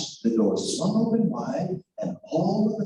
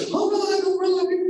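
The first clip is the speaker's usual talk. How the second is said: wolf giving in; 12 semitones higher than usual. Acted. Wolf gives in to miller.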